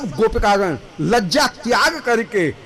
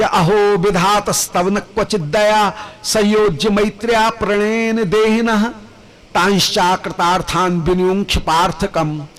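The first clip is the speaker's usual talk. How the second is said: verse recitation. Acted. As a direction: intone the verse with devotion. Chanting Sanskrit verse.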